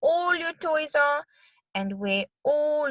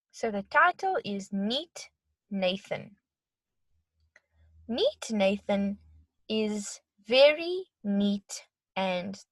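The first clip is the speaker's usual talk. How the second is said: put-on reading to children. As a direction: read it to little kids. Reads story to children.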